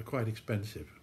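talking around pipe stem; pipe in mouth. Real, not acted. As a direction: lips gripping pipe. Seen 2: Pipe stem held between lips throughout the labelled words.

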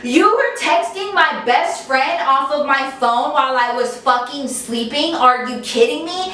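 mildly acted indignation; incredulous accusation, retold with some heat; retold angry outburst. Friend accuses boyfriend of texting from her phone, mildly angry. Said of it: "cried when she was angry".

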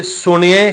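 ਸੁਣਿਐ drawn out with a rise; slight pause after. Shown as a demonstration. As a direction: rest lightly after ਸੁਣਿਐ. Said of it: "ਹਲਕਾ ਜਿਹਾ ਵਿਸ਼ਰਾਮ ਦੇ ਕੇ".

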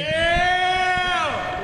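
excited shout. Real, not acted. Teammate cheers on intro.

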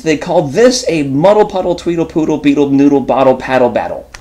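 brisk, bouncy read of a tongue twister; reading to children. Acted. Reading Fox in Socks aloud to viewers, bouncy and playful. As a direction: rattle through the rhyme, playful.

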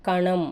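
కణం with retroflex nasal ణ, said loud. Shown as a demonstration. Teacher showing nasal ణ in కణం to pupils, loud demo. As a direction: ring ణ in కణం through the nose. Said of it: "అన అంటే అనునాసికం".

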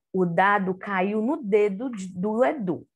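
O dado caiu no dedo do Edu read in one smooth flow; reading without stopping. Shown as a demonstration. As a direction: read it straight through, no pauses. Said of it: "a tia Luna vai ler, sem parar". (leitura corrida, sem parar)

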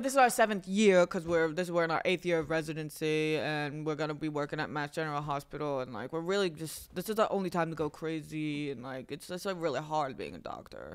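low, quiet, understated put-on earnestness; pretend overworked doctor. Fooling a guy on spring break, low quiet pretend-doctor spiel. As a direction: sink softly into the weary cover story. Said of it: "we convinced the guy we were doctors".

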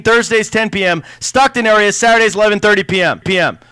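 rushing, running out of air; gasping through the last words; out of breath. Real, not acted. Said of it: "Whoa, I'm out of breath".

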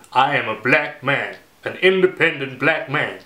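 put-on hesitant go at an African American accent; attempted American accent. Vlogger trying out a character voice, tentative American accent. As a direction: lightly imitate an African American man's accent. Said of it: "have a go at my American black man".

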